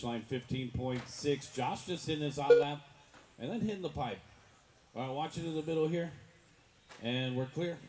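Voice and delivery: upbeat race announcer call; live play-by-play. Acted.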